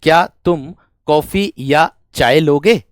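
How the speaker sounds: slow, careful dictation of the sentence; slow example reading. Shown as a demonstration. Teacher reads the example slowly to the class. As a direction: read it out slowly for students. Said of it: "या मैं कह दूं".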